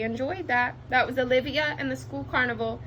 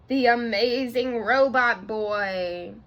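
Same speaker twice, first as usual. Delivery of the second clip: slow, drawn-out big reveal; grand reveal; slower than usual. Acted. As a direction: stretch it out for the wow moment.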